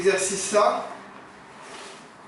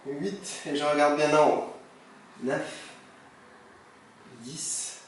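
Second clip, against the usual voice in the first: doing crunches; 6 dB quieter, much slower than usual. Real, not acted. Counting reps, last crunch set.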